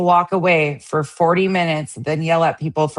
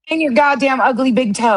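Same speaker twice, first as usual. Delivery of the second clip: mock yelling; 8 semitones higher than usual. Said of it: "I'm trying to yell at Frank".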